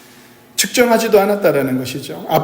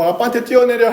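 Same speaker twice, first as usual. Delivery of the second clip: a lightly voiced father, higher and inviting; father calling to child; 6 semitones higher than usual. Father calling his toddler to jump down, lightly coaxing. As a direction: coax the child down with an open, upward call.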